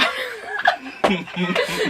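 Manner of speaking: high mock laugh that could pass for crying; imitated laugh-sob; imitated muffled laugh. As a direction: mimic a friend's stifled laughing over the phone. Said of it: "He was just, like, laughing".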